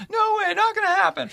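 shrill up high and shout them down; hammed-up kid guard yelling no way.

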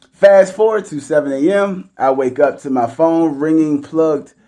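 measured, clearly phrased read-aloud; story read aloud. A narrator's reading. Host reads a listener's one night stand story, read-aloud voice.

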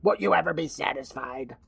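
put-on voice, mock exasperation; exasperated old boyfriend. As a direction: imitate a fed-up man pleading with his girlfriend. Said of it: "Carl's all".

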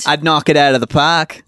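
put-on Australian accent on the whole line; Aussie accent. Shown as a demonstration. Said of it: "Oh, he's good".

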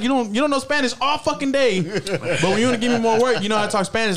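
mock complaint. Coworker retelling contractor's gripe about his Spanish, mock exasperated complaint.

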